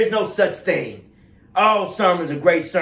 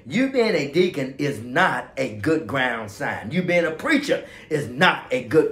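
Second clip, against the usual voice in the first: corrected, careful English. Shown as a demonstration. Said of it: "Okay, let's say it this way".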